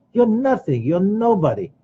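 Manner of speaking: mock bully talking down; belittling abuser. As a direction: sneer it at someone you keep down. Abuser belittling someone, acted.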